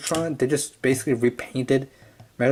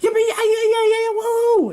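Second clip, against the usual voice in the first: psychotic guy voice; 4 dB louder, slower than usual. Retold or imitated. Continues psychotic voice.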